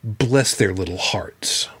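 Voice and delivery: put-on light English accent, slowed down; slow, mild imitation of an English accent; a hint of a sly English accent. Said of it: "typical English accent".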